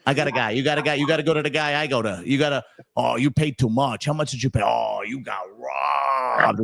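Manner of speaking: lightly voiced know-it-all brother; imitating oldest brother. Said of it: "that's like my oldest brother".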